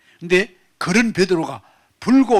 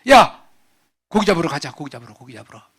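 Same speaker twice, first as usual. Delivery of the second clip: call then trailing off; 6 dB louder, faster than usual. Acted. Peter calling, then fading.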